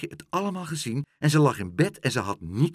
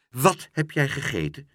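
sharp; 3 semitones higher, 4 dB louder than usual. Acted. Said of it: "vroeg Pluk scherp".

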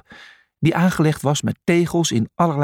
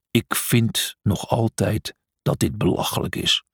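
growling; 3 semitones lower than usual. Acted. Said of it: "gromde hij".

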